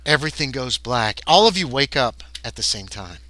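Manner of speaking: measured game master narration; scene narration. A narrator's reading. Game master describing the abduction to players, measured narration. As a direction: set an eerie scene evenly.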